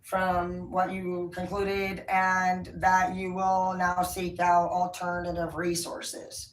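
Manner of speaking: slow, measured formal message; professional wording. Retold or imitated. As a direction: read it out like a careful official notice. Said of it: "is what I said".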